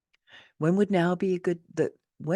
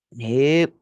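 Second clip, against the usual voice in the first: emphatic nope; 8 dB louder than usual. Real, not acted. Rejecting a platitude.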